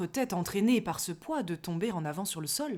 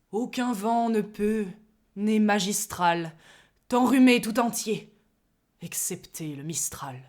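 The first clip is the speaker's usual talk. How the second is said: emphatic; 4 dB louder than usual. Acted. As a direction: declaim with pompous emphasis. (emphatique et grandiloquent)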